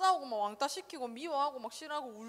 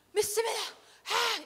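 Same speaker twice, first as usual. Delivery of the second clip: high, loud ecstatic shout; mock fervent worship; 9 semitones higher, 4 dB louder than usual. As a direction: cry out like a revival crowd. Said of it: "이거 몇 번 하는 줄 아나". (높고 크게 외치는 열광적 신앙 흉내)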